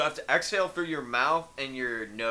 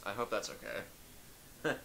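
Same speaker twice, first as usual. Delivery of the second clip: whisper; 3 semitones lower, 12 dB quieter, much slower than usual. Pretend. Aside in mock host bit.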